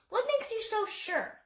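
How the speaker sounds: Peter, questioning. Acted.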